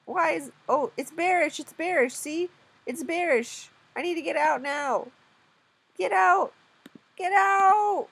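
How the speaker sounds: loud, high, insistent exclaiming; urgent alarm. Real, not acted. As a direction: call out to bail from a trade. Urging self out of losing trade.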